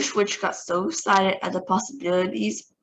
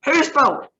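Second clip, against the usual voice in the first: Grand High Witch shrieks, higher and louder; 7 semitones higher, 7 dB louder than usual. A narrator's reading. Grand High Witch shrieks at the audience, higher and louder. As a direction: shriek it in rage. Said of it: "she shrieked".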